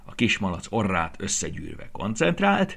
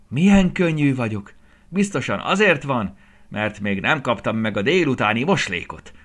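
high, loud carefree piglet cry; 5 semitones higher, 7 dB louder than usual. A narrator's reading. Piglet flying for the first time, crying out with joy. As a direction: shout with pure joy of flying. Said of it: "kiáltotta önfeledten Turcsi".

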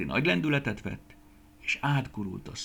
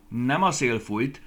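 slow, firm, louder retort; 4 semitones higher, 7 dB louder, slower than usual. Acted. Guszti corrects the peach lady, firm slow retort. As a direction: put the peaches right, firmly. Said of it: "vágta rá Guszti".

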